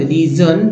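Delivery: रीजन said "ree-jun"; "un" ending shown. Shown as a demonstration. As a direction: model रीजन with a short "un" ending. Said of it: "यू एन को अन बोलते हैं".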